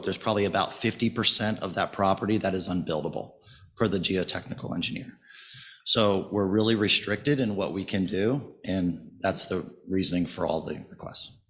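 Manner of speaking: slightly hoarse, allergy-roughened voice. Real, not acted. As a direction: speak through a hoarse throat. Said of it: "sorry for my voice. I've had some allergy stuff going on".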